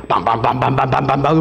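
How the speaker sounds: low vocalized drama sting; low "bam-bam" building in pitch; imitated swelling music. Shown as a demonstration. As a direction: pound out soap-opera music by mouth. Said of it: "음악이 고조됩니다".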